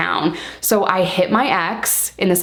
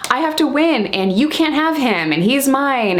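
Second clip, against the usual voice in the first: higher, emphatic sing-out of each claim; mock possessive insistence; 5 semitones higher than usual. Storyteller voicing her old rivalry over a man, mildly hammed-up insistence. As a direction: stake the claim like a stubborn rival.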